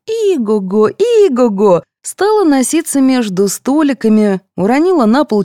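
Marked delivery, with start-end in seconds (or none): 0.1-1.8 a little girl playing horse, yelling; neighing like a horse. A narrator's reading. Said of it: "с воплем".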